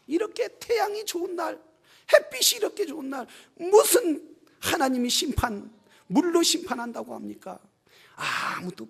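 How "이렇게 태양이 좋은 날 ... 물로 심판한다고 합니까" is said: high-pitched mock protest, easing down; scoffing disbelief. Townspeople doubting a flood on a sunny day, scoffing. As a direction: question it in acted disbelief. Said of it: "사람들은 비난하며".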